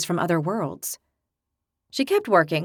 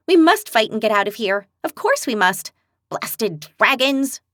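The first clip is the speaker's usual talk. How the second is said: mild enraged outburst, dragging out the curse; understated angry cry; 2 semitones higher, 3 dB louder than usual. Acted. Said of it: "she cried, enraged".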